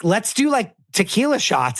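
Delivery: high party-bro accent imitation; Patrick Suzuki. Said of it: "doing everyone being as Patrick Suzuki".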